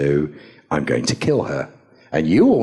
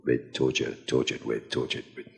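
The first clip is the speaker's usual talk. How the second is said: mock stumble, fading to a whisper; retold actor tripping on torture, trailing off; fumbling the line; 6 semitones lower, 7 dB quieter than usual. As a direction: trip over the words as it dies away. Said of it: "And you wanna go".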